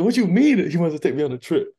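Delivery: can't believe what he just heard; incredulous. Retold or imitated. Young kid to himself, hearing about the trip, high incredulous outburst. Stunned at Melo's trip news.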